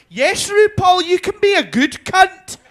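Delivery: high, loud, chirpy TV presenter; Lorraine Kelly. Retold or imitated. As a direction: imitate a polite presenter cheerfully proclaiming. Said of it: "who's so politically correct, so polite".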